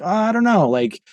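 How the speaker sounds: imitated offhand dismissal; noncommittal. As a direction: act out shrugging off the question. Acting out a noncommittal reply to churn talk.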